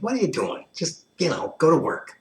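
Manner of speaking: high, loud sneering taunt; hammed-up mocking bully voice; mock yelling bully. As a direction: jeer like a heartless passerby. Mocking the injured, acted.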